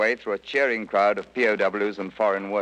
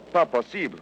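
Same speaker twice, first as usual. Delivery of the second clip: higher, mildly exclaimed disbelief; retold incredulous cry; 6 semitones higher than usual. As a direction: lift the pitch in mock astonishment. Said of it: "cried the French".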